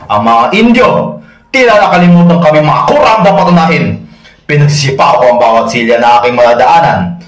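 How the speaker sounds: offended friar ranting, with jumps in pitch; indignant rant. Acted. Friar recounts kicking chairs at dinner, indignant. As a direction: rage at the insult to your rank.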